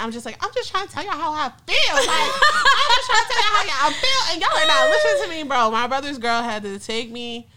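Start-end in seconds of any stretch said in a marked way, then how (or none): 0.4-5.7 mock therapy-speak plea. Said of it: "my ass who be listening to therapists".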